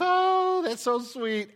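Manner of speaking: high-pitched mock cooing; gushing sweetness. Pastor mocks people's cute image of angels, gushing. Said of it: "We got this image of".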